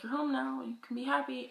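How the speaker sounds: lightly cooed reassurance; soothing the cat. Retold or imitated. Talking to her cat.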